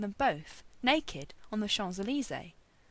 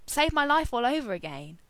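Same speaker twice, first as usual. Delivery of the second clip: louder, higher, hammed-up appeal; dramatic plea; 4 semitones higher, 7 dB louder than usual. A narrator's reading. Arthur begging Merlin for a favour, dramatic. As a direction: plead with theatrical flourish. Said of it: "struck a dramatic pose".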